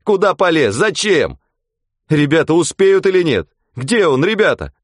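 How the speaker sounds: high, loud anxious talk; worried voices. Acted. Onlookers fret about the rescue. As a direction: fret aloud on the shore. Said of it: "волновались на берегу".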